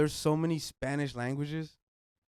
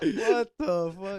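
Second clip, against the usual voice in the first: surprised; 5 semitones higher, much slower than usual. Real, not acted. Reacting to beef steak revelation.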